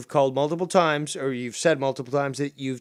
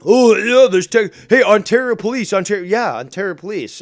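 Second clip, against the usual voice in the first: sarcastic mockery; 6 semitones higher, 10 dB louder than usual.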